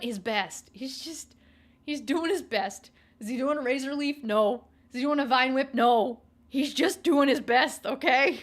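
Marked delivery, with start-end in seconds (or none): 3.2-6.2 louder quizzing and flat denial; loud rhetorical question and answer game; mock quiz. 6.5-8.4 slower, louder punchline; slow, loud defiant meme line; emphatic punchline. Acted.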